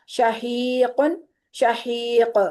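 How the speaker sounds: शहीक slow, with the last क़ stopped and echoed; qalqalah on final qaf. Shown as a demonstration. Teacher showing students the pausal form of शहीक. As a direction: stop on शहीक with a bounce. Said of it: "अल हक़ को नहीं करेंगे".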